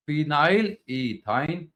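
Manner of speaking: slowed down, spelling out phenyl ethyne; teacher dictating phenyl ethyne slowly; slow dictation repeat. Shown as a demonstration. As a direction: say phenyl ethyne slowly so they can write it.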